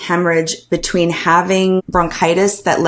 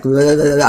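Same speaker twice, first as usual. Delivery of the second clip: shivering chatter; 2 semitones lower, faster than usual. Retold or imitated. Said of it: "I was shaking".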